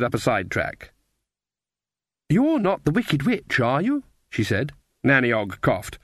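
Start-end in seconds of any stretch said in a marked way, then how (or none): 2.3-4.0 put-on little girl voice. A narrator's reading. Little girl asks suspiciously.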